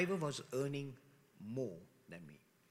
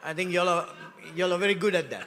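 teasing laugh; 6 dB louder, faster than usual. Real, not acted.

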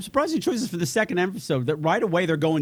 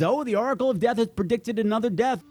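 retold Ryan; 6 semitones higher than usual.

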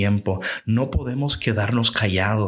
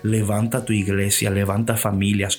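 closing prayer. Acted. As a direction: pray over the listeners, unhurried.

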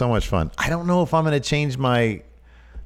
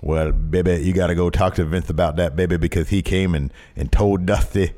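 Dusty Rhodes impression; 5 semitones lower than usual. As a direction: lean in like an old wrestling promo. Dusty bit.

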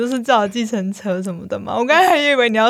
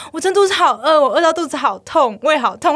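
put-on whiny boyfriend; 4 semitones higher than usual. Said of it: "他就突然就打完之后说".

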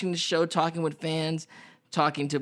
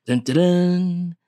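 movie trailer voice. Acted. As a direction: boom it like a movie trailer narrator. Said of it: "I put my Epic Voice guy, movie trailer voice on for that one".

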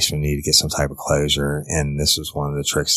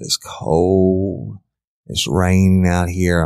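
put-on higher, begging girl's voice; imitating Caitlin; 4 semitones higher, 4 dB louder, much slower than usual. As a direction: plead like a cold, frightened girl. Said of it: "a representation of Caitlin's voice begging".

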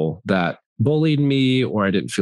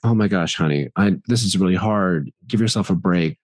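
put-on lower, gentle soothing of a child; comforting dad; 3 semitones lower than usual. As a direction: reassure your sad daughter. Comforting his sad daughter.

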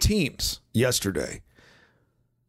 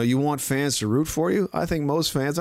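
normal talking voice

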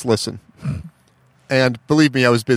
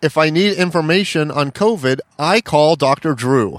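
douchey name-dropping. Retold or imitated. Name-dropping to a cable sales caller, douchey. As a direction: retell a douchey brag, slowing towards the end. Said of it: "it was so douchey".

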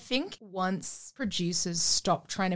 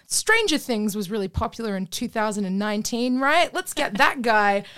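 lightly acted pitch, growing louder; mock eager producer; 2 semitones higher, 5 dB louder than usual. Producers picking a cast by what's popular, mock eager. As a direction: put on a hint of an eager studio pitch. Mimics producers making cynical casting choices.

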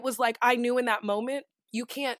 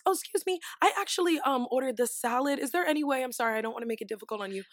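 polite, apologetic. Acted. Diner to waiter about a wrong order, polite and apologetic. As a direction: tread gently, hurry through the apology. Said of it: "it's how you say it".

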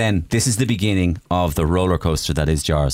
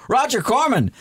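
mock incredulous reply; 9 semitones higher than usual. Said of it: "And you go".

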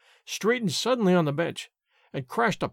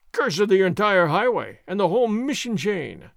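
a mild mock roar, a little louder; 4 dB louder than usual. Sergeant outdoing the landlord's remark, a mild roar. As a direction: bark it across the tavern. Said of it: "Sergeant Gonzalez roared".

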